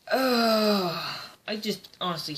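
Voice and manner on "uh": long, drawn-out groan of dislike; exasperated groan. Real, not acted. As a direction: let out a fed-up "uhh". Groaning about a disliked character.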